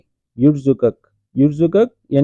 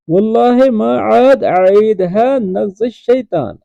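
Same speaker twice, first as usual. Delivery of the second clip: slow model reading; 4 semitones higher, slower than usual. Shown as a demonstration. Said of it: "teacher repeats the line slowly".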